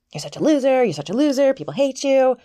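mock a loser the way a playground bully would; taunting cartoon girl. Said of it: "And she, like, taunts me".

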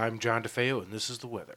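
smooth TV weather anchor read; newscaster voice. Pretend. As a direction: announce it like the evening news. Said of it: "John DeFeo sounds like a newscaster".

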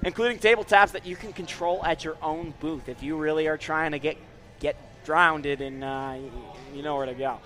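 ad read. Acted. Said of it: "reading voice".

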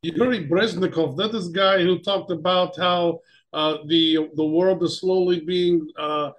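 mock Russian accent, halting; comic Russian correspondent voice. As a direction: answer as a Russian pundit, groping for words. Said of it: "why we talk like this".

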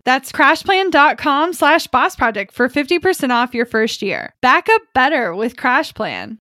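polished, lively podcast ad read; sponsor ad read. Acted. Host pitching a backup sponsor to listeners, scripted ad read. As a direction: sell it with practiced punch on the web address.

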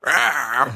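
short hammed-up "rah" roar; mock character roar. Imitating Englund's character in this one, hammy roar. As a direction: blurt a cartoonish growl. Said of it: "He's just like".

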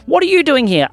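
high, loud startled question; shocked dad's yelp; surprised parent. Acted. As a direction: catch him off guard, startled.

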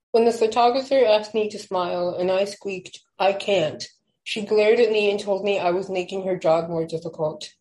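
measured spoken word poem; poem reading. Acted. Reads her poem aloud.

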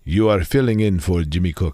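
low, grand genie voice; Robin the Genie voice. Shown as a demonstration. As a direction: speak as a booming genie. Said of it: "I'm going to make up a genie voice now".

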